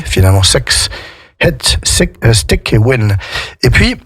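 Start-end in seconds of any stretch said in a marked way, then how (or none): 0.4-3.2 hit, stick, win leaning towards "het, steck, wen"; short I opened towards French "é" in hit, stick, win; I nearer to E. Shown as a demonstration. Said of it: "qui va se rapprocher plus du, euh, du E".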